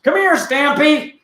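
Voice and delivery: high-pitched squealing excitement; hammed-up squeal over an adorable pet, breaking into laughter; gushing delight. Host calling his imagined tiny island elephant, squealing with delight. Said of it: "And I'd be like".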